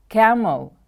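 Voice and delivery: Camel with the first syllable stressed, then falling. Shown as a demonstration. Teacher modelling a new word for pupils, first-syllable stress. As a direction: stress the start of "Camel", let the end drop. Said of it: "The stress is on the first syllable".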